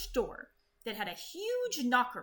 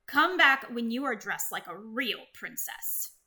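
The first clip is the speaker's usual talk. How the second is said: lightly voiced snooty prince; 4 dB louder than usual. Ronald sneers at Elizabeth's mess, lightly snooty. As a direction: look down your nose at her. Snobbish prince scolds her.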